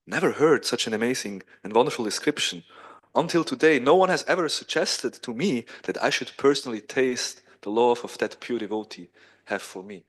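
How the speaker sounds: amazed. Acted. Krishna answers Rukmini's description of love, amazed. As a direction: marvel at something never heard before. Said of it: "Krishna became quite amazed".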